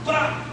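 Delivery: snap sound effect. Retold or imitated. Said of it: "dije así".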